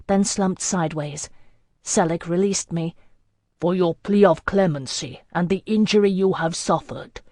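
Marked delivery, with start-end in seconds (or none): 3.6-7.2 measured, formal pronouncement. Acted. Lord announcing his judgment to the kneeling girl, formal. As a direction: deliver it like a ruling. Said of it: "he said formally".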